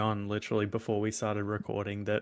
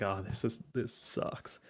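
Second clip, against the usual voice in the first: muttered complaint; 2 semitones lower, 10 dB quieter, slower than usual. Retold or imitated. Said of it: "I was like".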